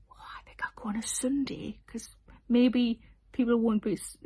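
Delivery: whispered, timid confession; shy whisper. Retold or imitated. Quoting a shy fan who prefers quiet Sunday shows, whispered. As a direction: whisper it like a nervous introvert.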